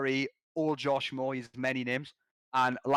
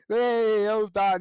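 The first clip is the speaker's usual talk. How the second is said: loud, raised-pitch call; imitated teammate's shout; 6 semitones higher, 6 dB louder, much slower than usual. Retelling the teammate's reaction to the win, loud imitated shout. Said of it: "Snake Horn was there like".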